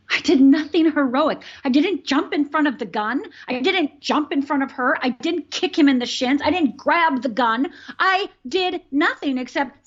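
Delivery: heated self-reproach; self-blame. Real, not acted. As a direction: pile up each failure, pitch lifted. Bitterly listing her own failures.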